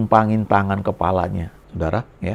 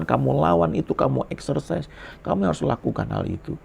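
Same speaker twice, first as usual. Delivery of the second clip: Jesus commissioning; 6 semitones higher than usual. Retold or imitated. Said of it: "Lalu dia bilang".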